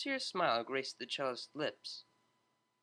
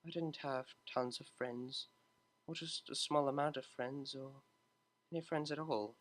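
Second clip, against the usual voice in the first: soft and hushed, barely above a murmur; quiet; 6 dB quieter than usual. Acted. Octavia quietly admits to Vinyl she had no friends. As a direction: let the admission slip out quietly. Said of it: "Octavia continued quietly".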